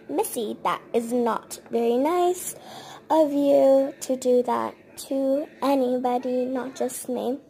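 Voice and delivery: firm, measured telling-off; retold scolding. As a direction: play the nanny reprimanding a rude child. Nanny scolds child for pushing.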